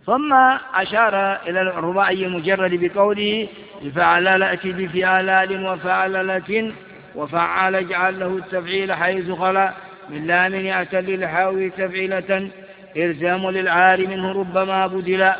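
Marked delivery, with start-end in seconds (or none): 3.8-15.3 verse recitation. Acted.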